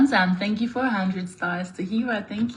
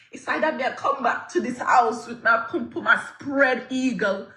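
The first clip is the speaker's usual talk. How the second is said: put-on Jamaican accent. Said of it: "Let me stop speaking in an accent".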